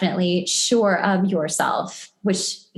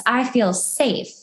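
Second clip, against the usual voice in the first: tender feminine voice. Acted. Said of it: "looks at the divine masculine and thinks".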